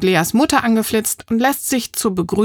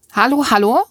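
louder calling hello; 4 semitones higher, 4 dB louder than usual. Acted. Cyclist calling to Marie, loudly. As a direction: call out to get her attention. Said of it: "Eine laute Stimme".

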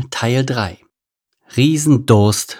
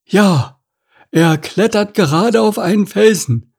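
high, excitable ostrich lookout; Stanislav; 10 semitones higher, 4 dB louder than usual. A narrator's reading. Ostrich reporting king's arrival to meerkat, high-voiced.

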